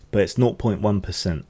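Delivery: words pushed through a burp; talking while burping. Real, not acted. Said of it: "I'm sorry for the burping".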